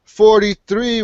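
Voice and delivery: slow, drawn-out show opener; podcast announcer. Acted. Host opens podcast intro.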